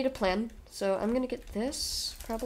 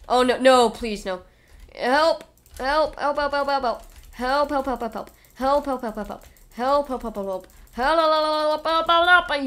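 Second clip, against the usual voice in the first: calling for help; 3 semitones higher, 5 dB louder than usual. Real, not acted. Calling for help under attack.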